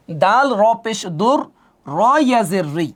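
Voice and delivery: দুর then র ইয়া জের রি, repeating the র into ইয়া; correct spelling demo. Shown as a demonstration. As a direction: chant দাল র পেশ দুর, then stretch রি through ইয়া. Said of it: "এভাবে পড়তে হবে". (দুর, র ইয়া জের রি টেনে সঠিক উচ্চারণ)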